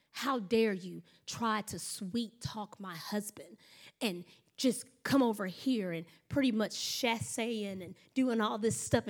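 quietly mock-outraged, drawing out the words; retold indignation. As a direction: act out offended wife, kept under her breath. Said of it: "She was mad".

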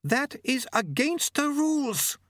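high, slow, tense protest; indignant high-pitched lady; hissed objection. A narrator's reading. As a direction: object in a high, drawn-out character voice. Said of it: "she hissed".

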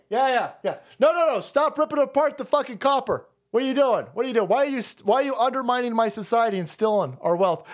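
high, exasperated pleading; hammed-up frantic protest; mock exasperated citizen. Acted argument with the activists.

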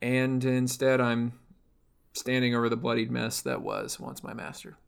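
put-on a light Russian-accented man's voice, mostly steady; understated Russian-accented robot telling her past; husky Russian man. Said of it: "which is why that I sound like this, which is why I sound like a husky Russian man".

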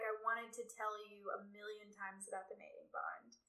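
unvoiced hushed admission; a hint of a tender confession; whispered confession. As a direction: whisper the secret to her. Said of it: "he was like".

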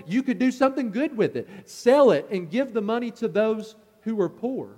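raking her over the coals, a touch mock-indignant; scolding. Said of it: "raking her over the coals".

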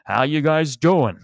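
put-on high, loud, overjoyed old man impersonation; mock-cheery elderly star; Dick Van Dyke. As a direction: greet them with hammed-up delight, drawn out slowly. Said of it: "he's so happy to see him".

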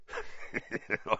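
soft chuckle; short, quiet teasing laugh. A narrator's reading. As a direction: chuckle in character. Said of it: "Hagrid was laughing".

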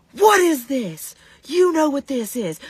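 high, loud scolding mom; mock scolding. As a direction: scold him like an outraged mother. Mom scolding about spit.

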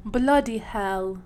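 slow, hammed-up British "Bloody hell"; mock British. Answering a friend in a hammed-up British accent. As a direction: drawl it like a stage Brit. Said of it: "both talk in a British accent".

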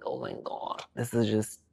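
breathless whisper; barely voiced, overcome. Real, not acted. Moved by fan message.

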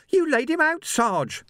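very high, loud squeak. A narrator's reading. Young Sam squeaks in amazement to his sergeant, very high. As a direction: squeak it out in shock. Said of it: "Sam squeaked".

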